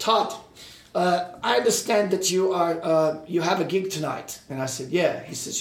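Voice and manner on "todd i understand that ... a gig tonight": put-on heavy, thick, pitched-up German accent. Retelling a phone call from Michael Wagner in Michael Wagner's thick German accent. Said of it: "in that thick German accent".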